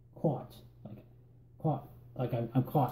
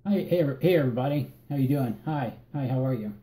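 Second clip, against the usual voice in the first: greeting a crowd. Shown as a demonstration. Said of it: "How do you address a group".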